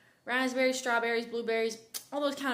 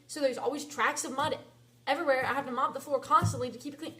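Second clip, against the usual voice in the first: louder, fed-up complaining; heated rant; 5 dB louder than usual. Real, not acted. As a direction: vent about the wet barracks floor. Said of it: "sorry about that rant".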